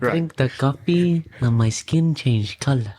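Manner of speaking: slow put-on Indian accent; deadpan tourist tale, Indian accent. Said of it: "why are you now Asian".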